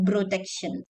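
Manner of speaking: "protection" said as "brotection". Shown as a demonstration. Teacher imitating the confusing mistake, B for P in "protection". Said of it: "when you say like that".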